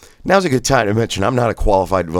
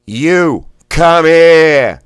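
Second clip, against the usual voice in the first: "come here" with Boston "here", loud and high; Boston blast; 9 semitones higher, 10 dB louder, much slower than usual. Shown as a demonstration. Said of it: "the here is like fire. That's Bostonian".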